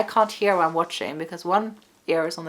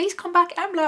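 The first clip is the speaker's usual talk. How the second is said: acted, very high shouted call; 13 semitones higher than usual. Retelling calling the dog back during recall training: imitating own shout. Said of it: "and I'm shouting her name".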